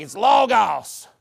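loud, dragged-out mock Greek accent; mocking fake Greek accent, slow and loud. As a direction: mimic a phony Greek accent, heavy on both vowels. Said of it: "just like your fake accent".

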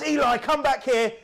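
put-on high, loud and slow call after a child; dad yelling after his runaway son; retold shout. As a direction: call him back across the field. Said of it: "and he shouts".

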